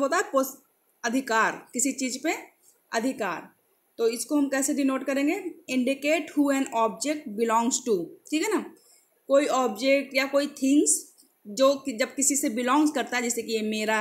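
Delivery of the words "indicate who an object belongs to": slow, word-by-word reading aloud; slow definition read. Shown as a demonstration. Teacher reading the slide to students, very slow. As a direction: spell it out slowly for the class.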